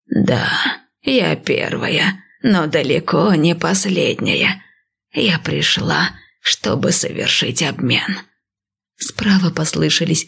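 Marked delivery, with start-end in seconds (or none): 0.1-8.2 slow, lightly voiced old priestess; calm old seer, unhurried; old woman voice.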